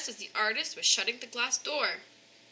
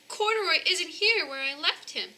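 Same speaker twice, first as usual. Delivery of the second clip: upset; 8 semitones higher, 4 dB louder than usual. Acted. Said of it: "she cried".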